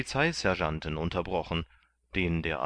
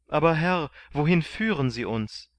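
higher, louder plea; anxious Kandid; 8 semitones higher, 4 dB louder than usual. A narrator's reading. Kandid asking the sergeant where they go, higher louder. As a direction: plead anxiously. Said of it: "fragte Kandid".

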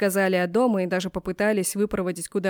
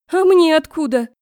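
higher, louder indignant comeback; indignant retort; 8 semitones higher, 9 dB louder than usual. A narrator's reading. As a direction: throw it right back at him. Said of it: "Не осталось в долгу Клара". (возмущённо огрызается)

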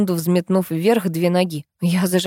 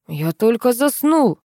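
slow, higher drawn-out complaint; sleepy neighbour; 5 semitones higher, slower than usual. A narrator's reading. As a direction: drag it out as if just woken. Neighbour just woken up. (сонно, врастяжку)

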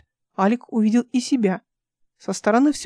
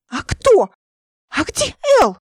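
high, loud, about to sob; tearful cry; 9 semitones higher, 5 dB louder, slower than usual. A narrator's reading. Сквозь слёзы, высоко. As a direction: Nika crying out for El. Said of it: "Ника снова разрыдалась".

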